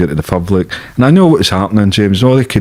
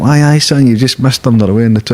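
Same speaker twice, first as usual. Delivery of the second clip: higher-pitched Geordie voice; Geordie accent; 5 semitones higher than usual. Retold or imitated. Older screw to new arrivals at the gate, mimicked Geordie accent. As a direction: imitate a Geordie prison officer. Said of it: "in a Geordie accent".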